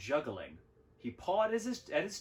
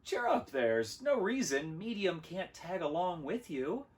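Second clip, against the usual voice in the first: higher, lilting encouragement; cheering up; 7 semitones higher than usual. A narrator's reading. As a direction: coax a let-down friend in a higher voice. Small consoles dejected Large.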